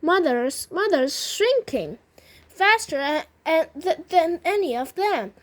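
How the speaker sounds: understated storybook wail, halting and upset. A narrator's reading. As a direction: wail in dismay over your mother. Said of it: "wailed Missus Bucket".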